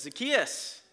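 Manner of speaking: Zacchaeus called out high and loud; calling out. Acted. Jesus calling up to Zacchaeus in the tree, calling out. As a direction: call his name up into the tree.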